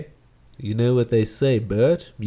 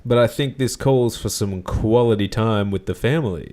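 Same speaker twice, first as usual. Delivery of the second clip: Bert voice. Acted.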